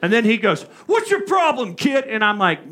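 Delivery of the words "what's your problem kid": higher mock snarl of the professor; imitating an irritated teacher; mock angry professor.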